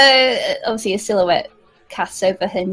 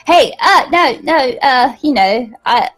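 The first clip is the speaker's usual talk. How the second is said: mouth full; 2 semitones higher, 3 dB louder than usual. Acted. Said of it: "not allowed to talk with my mouth full".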